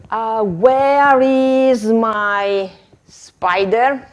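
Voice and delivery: slow searching witch question. Shown as a demonstration. Teacher as a witch asking pupils, slow and spooky. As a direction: drag it out like a witch hunting. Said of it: "I'm a witch".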